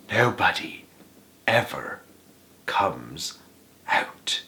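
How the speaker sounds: soft, slow, breathy secret; secret whisper. A narrator's reading. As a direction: whisper it close to the child's ear. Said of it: "lowered his voice to a soft, secret whisper".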